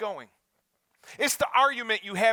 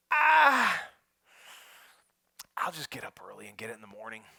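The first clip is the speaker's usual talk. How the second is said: lazy self-talk; 11 semitones lower than usual. Acted. Lazy self-talk at gas station.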